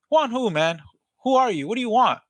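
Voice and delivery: high, challenging pushback; annoyed call recipient. Acted. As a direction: demand to know who is calling. Acted annoyed person answering the call.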